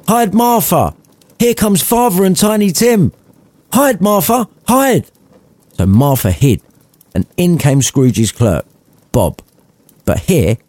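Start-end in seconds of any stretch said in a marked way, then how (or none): 0.1-5.1 put-on high, urgent kids' voices; children telling their sister to hide from father; excited children. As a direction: hurry her like giggling small kids.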